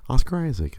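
high, incredulous question; can't believe it's him; husband replaying the disbelief; mock disbelief. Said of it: "I'm like".

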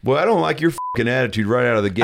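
snappy host retort; Dr. Phil voice. Pretend. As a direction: own host voice, fast. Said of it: "That's not how I sound".

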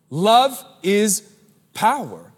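emphatic restatement. Acted. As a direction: punch it out the second time. Same phrase repeated louder.

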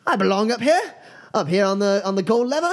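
high-pitched protesting magician; indignant trickster. Acted. Magician challenged about being up here, high indignation. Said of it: "he's like".

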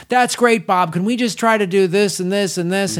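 mock eager kid in the booth; young booth guy. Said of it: "young guy in the booth go".

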